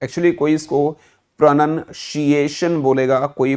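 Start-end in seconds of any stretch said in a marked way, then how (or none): 1.4-2.8 "प्रोनंशिएशन" with "shee" in place of "see"; common mispronunciation. Shown as a demonstration. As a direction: say "प्रोनंशिएशन" as pra-nan-SHEE-ay-shan. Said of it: "ninety eight percent लोगों को नहीं बोलना आता". ("प्रोनंशिएशन" में सी की जगह शी)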